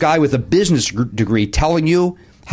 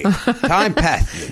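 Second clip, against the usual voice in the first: impression of a singer; 3 semitones higher than usual. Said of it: "I'm doing my impression of a singer".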